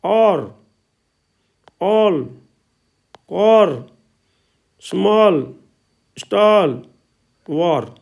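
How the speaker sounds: each word alone with an open aw vowel, "ऑल", "स्मॉल", "स्टॉल"; open आ sound. Shown as a demonstration. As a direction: model "कॉर", "वॉर" with a rounded open आ. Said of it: "ए का उच्चारण आ की ध्वनि में". ("ऑल", "स्मॉल" में खुली आ की ध्वनि)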